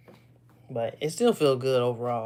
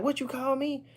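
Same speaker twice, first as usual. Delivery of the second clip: high-pitched offended retort, imitated; upset roommate; 11 semitones higher than usual. New York roommate objects to kinfolk, high mock indignation. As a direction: quote him taken aback, pitched way up. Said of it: "He got upset".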